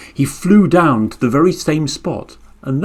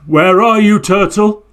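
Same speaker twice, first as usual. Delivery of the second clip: weary bird's cry; 6 semitones higher than usual. Acted. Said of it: "he cried".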